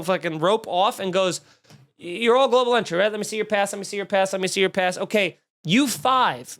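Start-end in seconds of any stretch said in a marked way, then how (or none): 2.0-6.6 imitating a flustered airport officer; mock flustered, slightly raised voice. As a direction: rattle off orders, repeating yourself. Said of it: "was so flustered".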